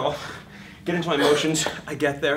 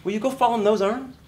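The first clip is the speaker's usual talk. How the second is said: defiant actor; 7 semitones higher, 4 dB louder than usual. Retold or imitated. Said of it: "I'm like".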